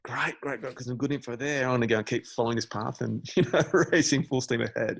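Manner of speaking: put-on keen young striver racing on; eager go-getter. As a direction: charge ahead with gung-ho eagerness. Acting out his eager younger self.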